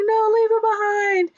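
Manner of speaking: very high mock-urgent order; frantic insistence. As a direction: cry it in hammed-up panic. Voicing panicked argument over dropped book.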